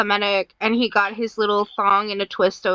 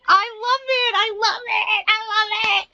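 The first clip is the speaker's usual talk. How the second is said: high-pitched, giddy outburst; delighted excitement; 9 semitones higher than usual. Real, not acted. Delighted reaction to the sketch.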